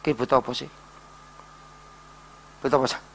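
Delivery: soft, low, quiet asking; gentle God. Acted. God gently asking the sad man, soft and low. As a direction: ask softly like a kind father. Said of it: "Tuhan ngomong gini".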